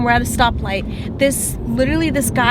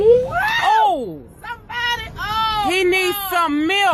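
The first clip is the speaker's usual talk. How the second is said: high, urgent call for help; calling out with alarm; excited; 7 semitones higher, much slower than usual. Real, not acted. Shouting about the baby.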